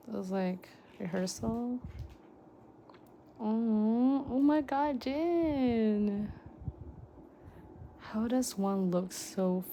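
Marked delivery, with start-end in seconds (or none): 3.4-6.3 louder excited oh my god; excited squeal. Real, not acted. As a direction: gasp out the name in delight. Pulling a singer's photocard.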